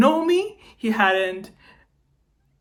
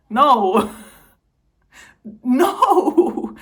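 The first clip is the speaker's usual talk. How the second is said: high laughing no; incredulous laughing no; 3 semitones higher, 5 dB louder than usual. Real, not acted. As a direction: scoff with a disbelieving laugh. Scoffing at doctor's assumption.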